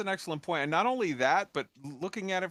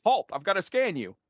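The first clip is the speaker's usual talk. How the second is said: lightly acted guard calling a halt; a hint of an officious guard stopping someone; guard's challenge; 5 semitones higher, 4 dB louder than usual. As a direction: imitate a guard's order, a bit louder. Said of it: "a guard s-, says".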